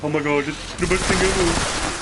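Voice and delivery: lightly put-on gushing fan voice; a hint of a silly overexcited fan; mock fan voice. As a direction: parody the hyped-up fans. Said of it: "I don't know why I'm doing this voice".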